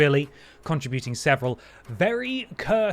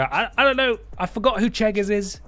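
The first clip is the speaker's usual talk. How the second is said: mock-flustered, higher and louder German-free panic; acting out scrambling to remember, pitched up; flustered scramble; 7 semitones higher, 3 dB louder than usual. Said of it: "scramble and go".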